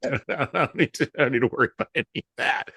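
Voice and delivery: a hint of a dad brushing it off, quick at the end; imitating father. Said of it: "as my father would have said".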